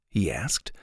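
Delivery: plain reading voice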